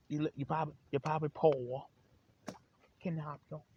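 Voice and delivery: put-on high, loud caricature of an Asian accent; mock Asian accent. Imitating Asian shopkeepers to short-changed customers, mock Asian accent. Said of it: "you got them Asian folks".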